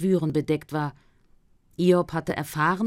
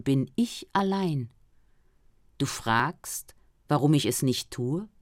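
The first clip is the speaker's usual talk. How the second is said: God speaking. Acted. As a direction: speak as God from within, calm and grave.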